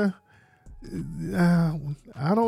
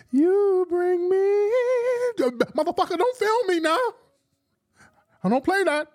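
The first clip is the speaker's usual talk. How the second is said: imitating a singer cursing mid-song. Impersonating a singer on stage, high singing and cursing at filmers. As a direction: stretch the notes, then spit the curses. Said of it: "cursing people out in mid-song".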